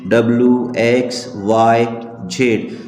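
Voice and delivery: slow, low letter-by-letter recital; reciting letters. Acted. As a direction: list each letter separately, evenly paced. (एक-एक अक्षर धीरे-धीरे बोलते हुए)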